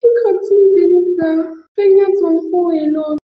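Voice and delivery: high, tearful wail of grief; crying. Acted. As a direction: plead while crying. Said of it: "You have to stop crying".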